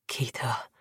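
tiny broken whisper. Acted. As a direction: barely voice the name. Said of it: "Aaron whispered".

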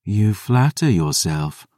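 slow, weary dismissal; sighing. Acted. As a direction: let it out on a tired sigh. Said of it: "Selene sighed".

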